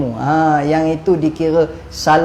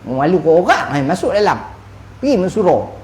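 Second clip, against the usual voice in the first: wife calling husband. Retold or imitated. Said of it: "bila isteri kata".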